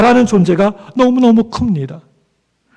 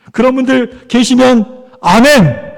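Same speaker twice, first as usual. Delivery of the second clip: drawn-out call for amen; slow rallying call; 2 semitones higher, slower than usual. Real, not acted. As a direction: invite the congregation's amen, stretching the last word. Calls congregation for an amen.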